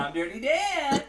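high, slow cartoon voice; Dirty Dan voice. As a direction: croon it like a grimy cartoon guy. Jokingly claiming the Dirty Dan role.

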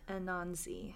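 whisper. Pretend. Spooky whispered title echo.

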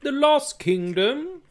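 high, slow dramatic movie voice; grand trailer-style delivery. Pretend. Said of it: "Maybe that could be my D C voice".

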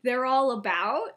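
mildly angry retold question, slow and deliberate; measured, lightly acted exasperation; getting angry. Friend pressing Lily about what Snape hid, getting angry. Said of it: "he's getting angry".

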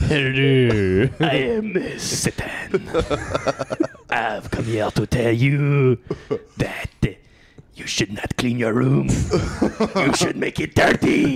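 put-on French accent. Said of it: "fucking French".

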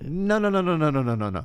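lightly imitated run of no-no-no; imitated insistent refusal. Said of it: "great how he did that".

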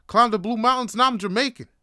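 loud, high boast; proud. Retold or imitated. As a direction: crow it with swelling pride. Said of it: "I felt that pride".

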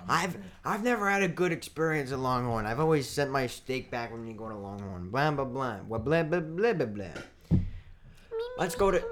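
lightly voiced whiny complaint; mocking a friend's Longhorn complaint; imitating Adam. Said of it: "That's how Adam sounds".

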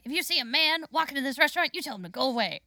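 hurried orders in a mock crackhead voice; Rita. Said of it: "both of your guys' crackhead voices".

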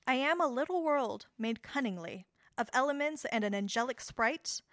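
slow, solemn poetry reading; sonnet voice. Shown as a demonstration. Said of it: "Gonna get my sonnet voice going".

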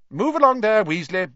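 high, loud teacher's command; sharp order. A narrator's reading. Professor McGonagall sending Weasley away, loud order. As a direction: shoo a dawdling pupil along loudly.

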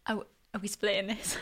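mock quote. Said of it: "is he getting to the drive-through bit at the end and going".

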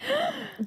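sharp high shocked gasp; retold gasp. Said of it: "And I was like".

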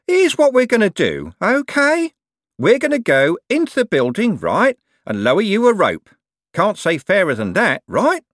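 high, loud menacing cheer; cheery bellow. A narrator's reading. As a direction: bellow with the wrong kind of cheer.

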